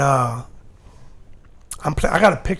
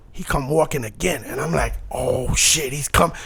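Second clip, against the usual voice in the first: hushed nervous; 5 semitones lower, 8 dB quieter than usual. Retold or imitated. Nervous as idol approaches.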